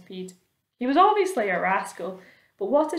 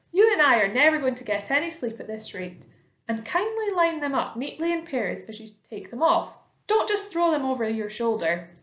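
lightly voiced, higher centipede; bossy centipede; 5 semitones higher than usual. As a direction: give fussy orders in a raised pitch. Centipede bosses James about.

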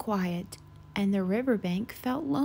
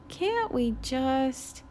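moaning; 3 semitones higher, much slower than usual. Acted. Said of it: "Goose moaned".

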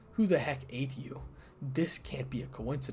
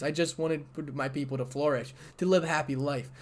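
louder and louder, rising to a pained cry at the end; anguished outburst; 3 semitones higher, 6 dB louder than usual. Acted. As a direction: pour out years of hurt at your mother. Daughter pleading with her mother.

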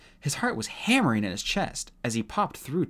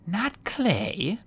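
surprised; 9 semitones higher than usual. A narrator's reading. Dune surprised.

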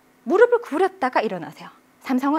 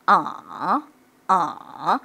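"아" sinking low, then lifting; dipping tone; 5 semitones lower, much slower than usual. Shown as a demonstration. Teacher showing the third tone, dipping then rising. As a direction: let "아" drop into the throat and bounce up. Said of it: "코에서 목젖으로 내려오는".

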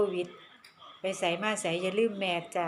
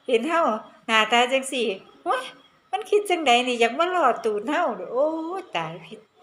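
loud, higher, appalled exclamations; disgusted exclaiming; 4 semitones higher, 4 dB louder than usual. Real, not acted. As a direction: cry out in horrified disbelief. Recoiling from a foreigner's request. (อุทานเสียงดังอย่างรังเกียจ)

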